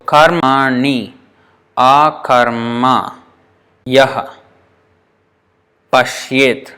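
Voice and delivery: "karmani akarma yah pashyet" slow, with pauses between words; counted out slowly. Shown as a demonstration. Teacher counting nine syllables, slow and separated. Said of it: "becomes nine".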